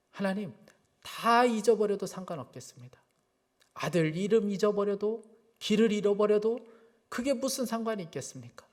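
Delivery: retold prayer, softening on the final pleas; earnest prayer. Preacher recalling his plea to God for his father, earnest prayer. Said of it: "그렇게 간절하게 기도했습니다".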